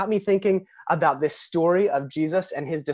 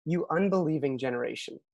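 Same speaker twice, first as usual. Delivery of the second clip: soft exasperation; 6 dB quieter than usual. Retold or imitated. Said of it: "Jesus's response is".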